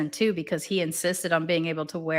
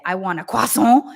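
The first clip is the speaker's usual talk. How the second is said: put-on French pronunciation of croissant; fake French accent; 6 dB louder than usual. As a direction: imitate a faux-French "croissant". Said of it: "fake version of a French accent".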